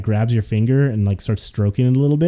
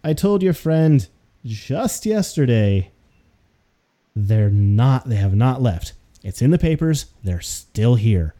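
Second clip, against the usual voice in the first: slow, drawn-out exasperation; weary clerk spelling it out; exasperated; slower than usual. Acted. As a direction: clerk repeating herself to the party, exasperated. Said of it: "looks just exasperated".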